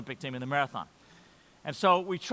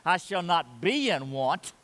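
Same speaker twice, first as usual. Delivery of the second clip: earnest paraphrase; 3 semitones higher than usual. Retold or imitated. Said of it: "he means".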